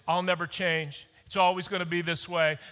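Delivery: low, resigned self-talk, lightly voiced; imitating defeated talk. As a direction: mutter it like a hopeless person. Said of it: "talking like this".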